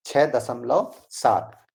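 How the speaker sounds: each word slow and distinct, छह then दशमलव then सात; slow careful reading. Shown as a demonstration. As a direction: read out slowly, like teaching a class. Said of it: "जिस तरीके से हम इसे बोल रहे हैं". (धीरे-धीरे, साफ़-साफ़ पढ़कर बताना)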